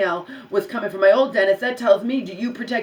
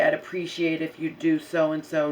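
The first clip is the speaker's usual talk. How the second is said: nice, even and a little softer; polite request; 4 semitones lower, 4 dB quieter than usual. Shown as a demonstration. To the receptionist, the nice way she could have asked. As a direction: ask it nicely, no edge. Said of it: "You can say it nice".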